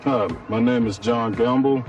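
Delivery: ordinary talk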